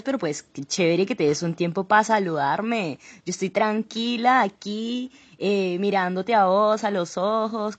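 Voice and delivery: a light Cali Colombian lilt, playing a celebrity guest; Cali Colombian accent. Podcast guest asked for her Colombian accent, Cali Colombian accent. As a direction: greets the host in a put-on Cali Colombian accent. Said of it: "haznos el acento colombiano".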